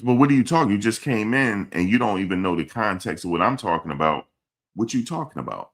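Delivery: loud, high disbelieving scold; indignant outburst. Real, not acted. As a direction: snap back at the commenter, loud and high. Scolding a chat commenter.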